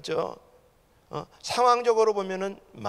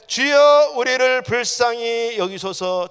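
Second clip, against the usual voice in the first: loud, high burst, then drawn-out plea; crying out louder; 4 semitones higher, 9 dB louder, slower than usual. Retold or imitated. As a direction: belt out the blind men's cry for mercy. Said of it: "더욱 소리질러 가로되". (더욱 크게 부르짖는 간청)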